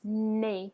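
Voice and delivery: French "Nez" said as "nay"; silent final Z. Shown as a demonstration. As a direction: say "Nez" with no Z sound. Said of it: "a word ending in a Z".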